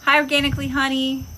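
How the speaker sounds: hammed-up gushing impression; imitating Pam. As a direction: squeal it like an over-the-top friend. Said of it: "And Pam was like".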